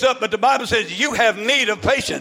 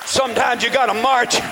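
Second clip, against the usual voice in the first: driving, rhythmic revival shout; full-force preaching; 3 semitones higher than usual. Real, not acted. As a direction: build from firm exhortation to high shouted preaching.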